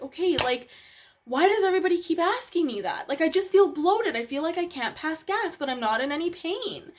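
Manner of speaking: insisting to the doctor she feels no pain, exasperated; frustrated protest. Retold or imitated. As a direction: push back as if tired of the same question. Retold frustrated reply to doctor.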